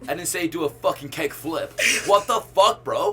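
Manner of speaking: hammed-up American frat bro, building to indignation; mock-outraged frat bro; frat boy. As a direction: scold a buddy like a frat boy. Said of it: "I can only do frat boy".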